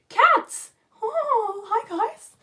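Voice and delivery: high-pitched coo at cute cats; delighted cooing. Real, not acted. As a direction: greet the cats in a high, adoring voice.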